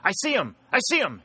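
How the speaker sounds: very high, excited cry; wild shout. A narrator's reading. Pennington spots the enemy general, wild high shout. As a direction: cry out wildly at a sudden sighting. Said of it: "heard Pennington utter a wild shout".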